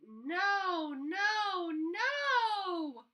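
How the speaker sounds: high, loud scolding mother's cry; fed-up mom yelling at her son. Acted. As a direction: call it out like an exasperated mom. Mom scolding mud in house.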